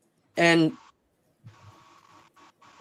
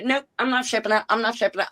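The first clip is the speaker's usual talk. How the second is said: quick, higher, clipped mock refusal, repeated; mad refusal; 4 semitones higher, faster than usual. Retelling Lori refusing to ship it, mildly mad. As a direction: imitate her angry flat no. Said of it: "by then you were mad".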